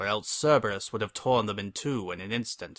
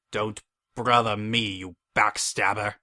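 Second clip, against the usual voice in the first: hissed; 4 dB louder than usual. Acted. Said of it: "I hissed".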